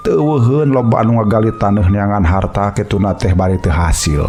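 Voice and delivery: plain reading voice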